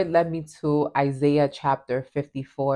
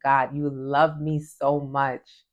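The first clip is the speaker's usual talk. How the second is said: tender prayer; slower than usual. Retold or imitated.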